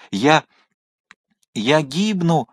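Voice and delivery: a mild, feeble cry of a drowning man; weak cry. Acted. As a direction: call out with failing strength. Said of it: "слабо крикнул Мордаунд". (слабый крик тонущего)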